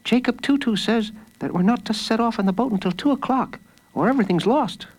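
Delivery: put-on high, urgent young declaration; declaring. A narrator's reading. O'Toole reminding the others of the plan, declaring. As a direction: pitch it up as a firm warning. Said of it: "declared O'Toole".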